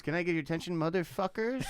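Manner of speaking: mock club DJ working the room; cheesy white DJ. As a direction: play a fifty-something DJ trying to sound cool. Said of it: "White guy D J trying to be as cool".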